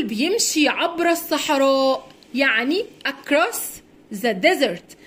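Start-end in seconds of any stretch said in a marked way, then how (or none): 4.1-5.0 desert with a buzzing z in the middle. Shown as a demonstration. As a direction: say desert as "dezert". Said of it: "الاس هنا بننطقها زد".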